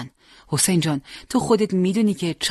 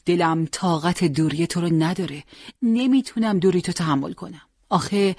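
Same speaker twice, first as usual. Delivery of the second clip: grieving mother. Acted. Mother reproaching Hossein for leaving without goodbye, rising plea. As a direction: plead and reproach, voice climbing.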